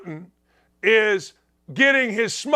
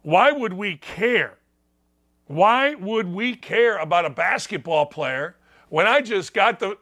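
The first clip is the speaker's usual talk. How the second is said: put-on Putin accent; 2 semitones higher than usual. Putin scoffing at America over the swap, light Russian accent. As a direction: start level, then rise into dismissive mock-Russian orders. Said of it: "I can do it in a Putin accent if you'd like".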